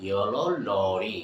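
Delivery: rushed yellow lorry; fast drill. Shown as a demonstration. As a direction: rattle it off at speed. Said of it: "So what I say".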